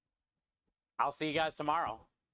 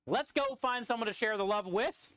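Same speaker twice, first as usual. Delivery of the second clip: raised voice over kitchen noise; yelling over the vent; 6 semitones higher than usual. Real, not acted. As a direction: call out over the hood fan. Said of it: "so I stop yelling".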